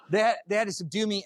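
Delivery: high, laughing through the words. Real, not acted. Recounting being subdued to audience, laughing. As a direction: laugh out the repeat.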